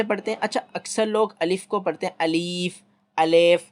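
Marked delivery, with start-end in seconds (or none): 2.2-2.8 अलीफ with a long drawn ee; teacher shows the wrong alif. Shown as a demonstration. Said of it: "ये गलत है". 3.2-3.6 अलेफ said with an e, heavy; teacher shows the wrong alef. Shown as a demonstration. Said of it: "ये गलत है".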